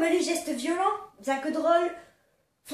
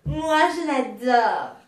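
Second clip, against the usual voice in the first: put-on giddy party girl; 5 semitones lower, much slower than usual. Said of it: "voix de Poufias".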